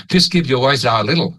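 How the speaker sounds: quick, linked American-style English; American accent. Shown as a demonstration. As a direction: say it like an American native speaker. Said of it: "ถ้าเป็นฝรั่งก็จะว่า ... ออกเสียงแบบอเมริกัน". (สำเนียงอเมริกันแบบฝรั่ง)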